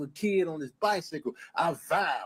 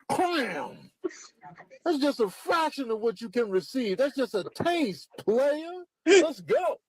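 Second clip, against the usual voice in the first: cocky ram bully; 8 semitones higher than usual. Acted. Ram character in a high voice.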